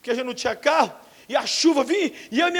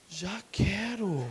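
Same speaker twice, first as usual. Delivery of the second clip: quick yes; 5 semitones lower, 10 dB quieter, much slower than usual. Retold or imitated. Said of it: "Você quer?".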